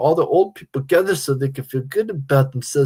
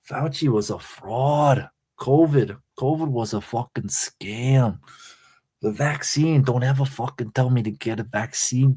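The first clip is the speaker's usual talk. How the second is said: a half-hearted impression of D A ranting; streamer's only D A impression, a mild mock rant. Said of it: "the only D A impression that I can do is".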